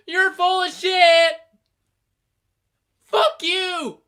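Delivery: shrieking mother in a high put-on voice; Mama Rhodes. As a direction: yell furious insults, high and loud. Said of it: "Mama Rhodes was like".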